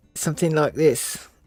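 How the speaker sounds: South African accent, through the nose. Explaining how South Africans talk, demonstrating a nasal South African accent. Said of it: "they kind of talk like this to the nose".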